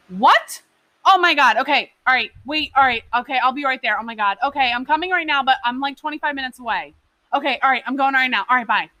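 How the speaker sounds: acted alarm over a phone call, words rushed and startled; fake panic. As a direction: play the shocked employee hearing bad news, overdone like a soap opera. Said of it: "I was Meryl Streeping it up".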